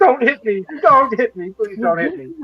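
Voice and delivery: high-pitched, mock-frightened begging; pleading. Player begs not to be hit.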